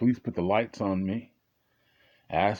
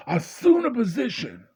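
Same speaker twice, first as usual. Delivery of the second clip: high, loud police command; barking cop; 5 dB louder than usual. Retold or imitated. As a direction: bark it like a cop ordering you. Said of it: "he goes".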